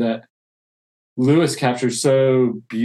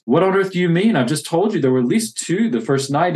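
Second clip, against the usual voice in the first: indignant surprise; 5 semitones higher than usual. Acted. Boy protesting to the voice.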